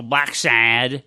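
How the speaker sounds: "Sad" drawn out with a flat American a; American pronunciation. Shown as a demonstration. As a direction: stretch "Sad" slowly, all-American. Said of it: "Well, I'm American".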